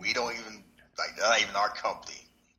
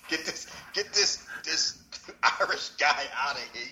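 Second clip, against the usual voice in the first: laughing; 4 semitones higher than usual. Retold or imitated. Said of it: "talking about T K O was like".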